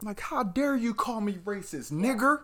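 high, slow mock outrage ending in a laugh; high mocking huff, breaking into a laugh; mock racist outrage. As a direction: ham up an offended racist. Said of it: "mocking racist outrage".

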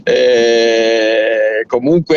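hoarse, worn-out voice; straining a tired, hoarse voice; voice giving out. Real, not acted. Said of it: "Sono senza voce".

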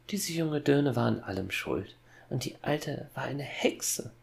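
put-on high, patronizing girl's voice; Gretel voice, patronizing. A narrator's reading. Sister's voice blaming the women to father, high and patronizing. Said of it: "meinte die Gretelstimme gönnerhaft".

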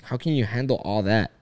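ordinary talk

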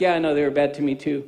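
Jesus gently answering a complaining believer; gentle Jesus voice. Acted. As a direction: answer kindly, fast and soft. Voicing Jesus in dialogue.

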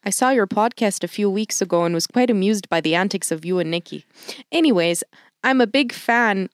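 light, slightly Midwestern Canadian accent. Shown as a demonstration. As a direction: read the email in a Canadian accent. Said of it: "that was my Canadian accent".

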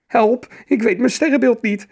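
high, loud frightened cry; squeaky little troll in alarm; scared troll child. A narrator's reading. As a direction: call for help in a panicky child's voice. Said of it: "riep hij met een bange stem".

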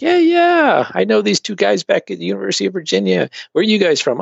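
high-pitched eager imitation of himself; mock eager reply. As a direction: play up your younger self's keen friendliness. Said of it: "And I'm like".

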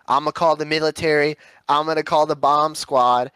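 lightly mocked country magnet fisher; a hint of hammed-up country twang; country accent. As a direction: imitate a self-important country guy. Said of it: "Midwestern accent".

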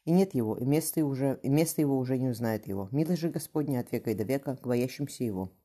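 measured priest's prayer. A narrator's reading. Priest reciting psalm over the grave, measured and even. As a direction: read it like a priest at a funeral. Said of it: "Размеренный голос священника".

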